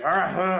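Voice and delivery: wordless grunt of exasperation, acted out; frustrated "argh", played for the story; mock angry growl. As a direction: imitate a fuming opponent's noise. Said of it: "he's, like, super mad".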